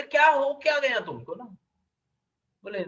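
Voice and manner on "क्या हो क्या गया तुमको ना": concerned question. Retold or imitated. God asks weeping Shesha.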